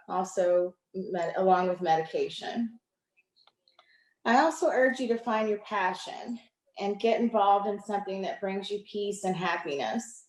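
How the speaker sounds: measured reading, pausing between lines; poem reading. Acted. Poet reading on courage and mental health to an online audience, measured poem reading. Reads prepared piece aloud.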